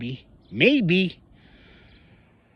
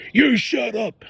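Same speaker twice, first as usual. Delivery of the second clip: mock snap; 9 semitones higher, slower than usual. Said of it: "He says".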